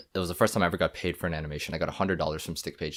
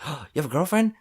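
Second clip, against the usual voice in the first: amused dad; 8 semitones higher than usual. Retold or imitated.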